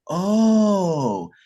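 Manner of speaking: high, drawn-out impressed "Oh". Retold or imitated. People seeing the golden resin, a high impressed oh. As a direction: let the eyebrows go up in the sound. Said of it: "They'd be like".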